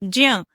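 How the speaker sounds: ज्य said as j blended into a nasal nya. Shown as a demonstration. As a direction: start on j, release into "nya". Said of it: "ज बोलने को तैयार हो". (ज और ञ मिलाकर ज्ञ का उच्चारण)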